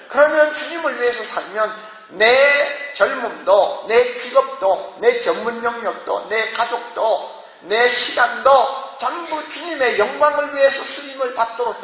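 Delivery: slow, drawn-out sermon list; impassioned preaching. Real, not acted. Preacher urging listeners to give everything to the Lord, drawn-out preaching. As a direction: stretch each item for the congregation.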